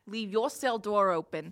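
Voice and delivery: scornful jailer laying down threats; threatening jailer. Acted. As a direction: lean hard on the insults.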